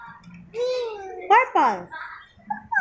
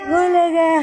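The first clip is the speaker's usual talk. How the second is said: playful peekaboo; 4 dB louder than usual. Acted. Peekaboo game with child.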